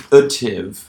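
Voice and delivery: "ative" with a reduced first vowel, like "uh-tiv"; pronunciation demo. Shown as a demonstration. Lecturer sounding out a suffix, "ative" said as "uh-tiv". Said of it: "that's what it sounds like when you say it".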